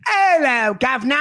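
jokey over-the-top cockney; cockney accent. Pretend. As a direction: ham up a stage cockney greeting. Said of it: "you just go real cockney".

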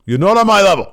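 hammed-up shout of the wrestler's line; mock heel taunt. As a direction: yell the putdown like a gloating heel. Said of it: "and then he says".

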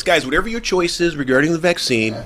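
smooth real estate agent pitch. Pretend. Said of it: "I'm gonna say it in my real estate voice".

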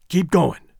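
ordinary delivery

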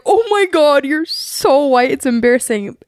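mock dismay, starting high and settling down; scolding mother. Imitating mom embarrassed by her, mild mock dismay. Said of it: "your mom's like".

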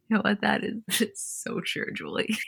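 breaking up with laughter; laughing. Real, not acted. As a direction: say it through a laugh, words trailing softly. Both laugh at earring joke.

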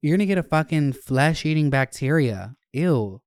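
grossed-out high shriek; disgusted. Retold or imitated. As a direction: recoil in disgust. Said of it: "I'm like".

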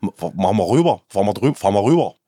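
halting, low attempt at Saxon; Saxon dialect. Shown as a demonstration. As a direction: try out a Saxon accent, stumbling. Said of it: "jetzt kann ich selber nicht". (stockender Versuch auf Sächsisch)

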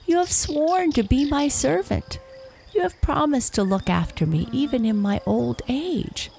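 high, wounded wolf voice, swooping pitch; pleading. A narrator's reading. Betrayed wolf to his former servant, pleading. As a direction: beg in a high, hurt voice. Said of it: "pleaded the wolf".

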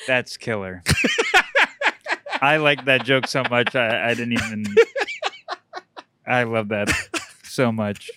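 cracking up mid-line. Real, not acted. Laughing at the joke.

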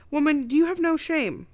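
high-pitched mock outrage; feigned shock. A narrator's reading. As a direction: act scandalized, playfully overdone. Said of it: "Billy feigned shock and tone".

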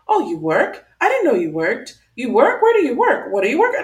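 mock-doubtful rising questions, "work?" pushed up each time; incredulous. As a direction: needle her with disbelieving questions. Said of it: "she keeps on saying it".

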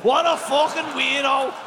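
mock wife rant. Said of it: "she says".

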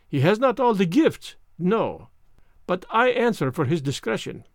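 fussy Belgian detective voice; lightly French-accented precise gentleman; Hercule Poirot. Acted. Poirot speaks.

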